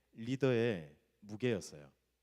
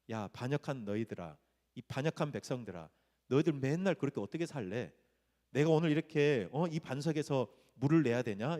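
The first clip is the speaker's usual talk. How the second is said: a fed-up leader's mild, realistic telling-off; Moses. Acted. Moses losing patience with the people, restrained anger. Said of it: "진짜 마음의 화를 참지 못하고".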